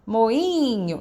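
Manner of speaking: MOINHO with a long drawn-out I in the middle; stress on I. Shown as a demonstration. Teacher calling the word to show tonic syllable, prolonged I in "moinho". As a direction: stretch the I of "moinho". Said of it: "a que eu chamo mais forte é a sílaba tônica".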